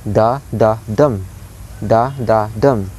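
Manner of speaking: "da, da, dum" with weight on DUM; two weak DAs, then stressed "dum"; anapestic beat. Shown as a demonstration. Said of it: "So the pattern here is".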